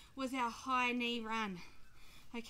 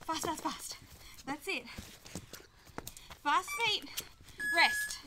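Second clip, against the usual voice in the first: barking gym coach; 2 semitones higher than usual. Real, not acted. Coach urging sprint.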